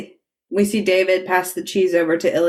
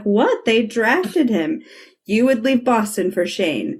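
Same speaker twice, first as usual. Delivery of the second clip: incredulous mom; 4 semitones higher than usual. Retold or imitated. Acting out the incredulous mother.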